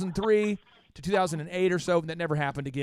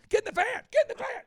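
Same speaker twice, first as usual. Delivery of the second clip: much higher, yelled command; over-the-top TV hero yelling orders; A-Team shout; faster than usual. Retold or imitated. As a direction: bark it like an action-show leader. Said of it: "It was like the A-Team".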